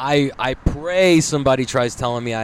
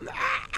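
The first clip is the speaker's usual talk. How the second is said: mild mock scream; 4 dB quieter than usual. Patient retelling the scalpel on his pimple, mild mock scream. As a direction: let out a half-hearted "ah" of pain. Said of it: "I'm screaming".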